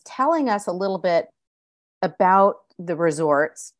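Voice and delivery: normal talking voice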